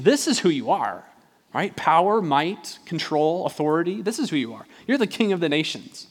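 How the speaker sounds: acted emphatic, incredulous objection; insistent protest. Preacher as Peter arguing with Jesus about suffering, insistent protest. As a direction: build to an exasperated challenge.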